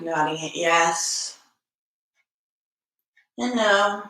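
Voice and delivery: measured cues, long silences between phrases; unhurried yoga teacher settling the class; guided meditation. Acted.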